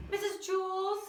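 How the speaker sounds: high-pitched pupil calling teacher; tattling call. Acted. Pupil calls teacher about a sleeping classmate, tattling.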